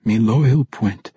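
slow, gentle dwarf king; king reassuring his loyal friend. Acted. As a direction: comfort your old friend. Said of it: "he reassured the dwarf".

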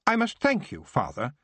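a touch of sudden vigour, high; vigorous. Acted. Son facing his father with a hint of vigour. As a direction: thank him firmly. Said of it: "with unexpected vigour".

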